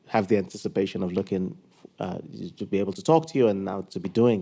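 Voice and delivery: tripping over the words, rushed; nervous stumbling, hurried; stuttering. Real, not acted. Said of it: "I'm stuttering".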